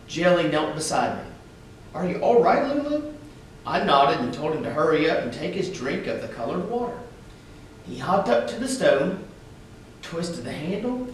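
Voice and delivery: expressive read-aloud for schoolchildren; story narration. A narrator's reading. Reading a picture book aloud to schoolchildren, storyteller voice. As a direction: tell it gently to a class of kids.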